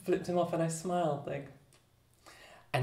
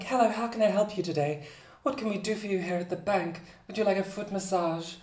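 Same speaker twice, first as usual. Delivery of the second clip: higher pitched voice; 5 semitones higher than usual. Shown as a demonstration. Greeting bank customers at work, higher pitched voice. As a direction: put on a higher voice with lots of inflection. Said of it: "even higher pitched voice".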